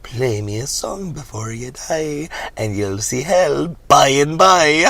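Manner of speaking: slow creepy leprechaun rhyme; lightly voiced impish threat.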